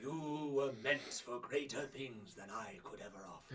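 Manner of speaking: slow, solemn mentor farewell; slow, measured sage voice; wise old master. Acted. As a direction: send your pupil off gently, with long pauses. Old master sends his pupil off.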